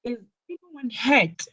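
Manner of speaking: slightly high, worried "Is anyone hurt?" falling at the end; worried question. Shown as a demonstration. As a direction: ask it like you fear the worst. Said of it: "asked in a worried way".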